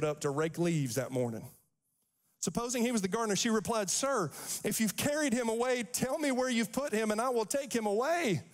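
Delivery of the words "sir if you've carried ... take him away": desperate plea. Acted. Mary pleading with gardener.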